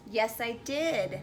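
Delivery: slow, insistent comeback; defensive. Acted. Wife insists to husband that she did ask, defensive. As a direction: drag it out to contradict him, mock-defensive. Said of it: "you would get defensive and say".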